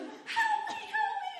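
very high, pleading wail; mock panicked plea. Panicking on the trail, begging John, high mock wail. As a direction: cry out for help in hammed-up panic.

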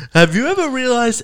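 a hint of a stand-up comic setting up a bit; Jerry Seinfeld. Host tries the line as a Jerry Seinfeld bit, lightly voiced. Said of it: "it could be a Jerry Seinfeld bit".

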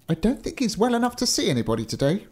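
high-pitched gatekeeper voice; warder. A narrator's reading. Warder putting off the giant, high character voice. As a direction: lift the pitch for a reluctant servant. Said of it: "said the warder".

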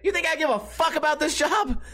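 high hammed-up sassy woman; mock rude lady. Walmart employee mouthing off to a coworker, high mock sass. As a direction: toss it off like a worker who's done caring. Repeating the lady's line.

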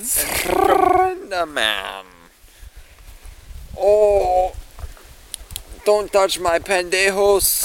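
sloppy tipsy slur. Real, not acted. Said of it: "You sound like a drunk ass".

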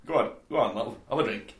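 raspy Yorkshire offer; a lightly put-on Yorkshire host; Yorkshire accent, hammed-up; mock Yorkshire accent. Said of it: "when I do a Yorkshire accent".

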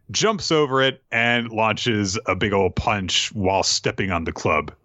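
usual speaking voice

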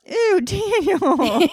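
high, drawn-out disgusted squeal. Real, not acted. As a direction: stretch out the ew in disgust. Reacting to gross remark.

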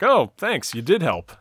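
retold sarcastic thanks, dropping back after a high start. Hank sarcastically thanking Supergirl for her analysis, sarcastic. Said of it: "like, this sarcastic".

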